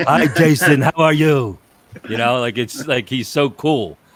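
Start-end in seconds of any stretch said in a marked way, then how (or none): 0.0-1.6 put-on slow, drawn-out, raised French accent. Imitating Bernie Parent greeting him: Bernie Parent French accent impression. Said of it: "with that French accent".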